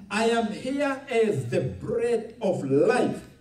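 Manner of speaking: slow build to a stressed "life". Retold or imitated. Preacher quoting Jesus to the congregation, stress landing on "life". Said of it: "Emphasis on life".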